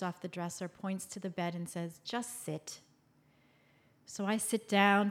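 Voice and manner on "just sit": quiet, weary mom's order; softly exasperated command; frustrated resignation. Retold or imitated. Mother points daughter to the bed, frustrated resignation. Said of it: "she sighs a frustrated sigh".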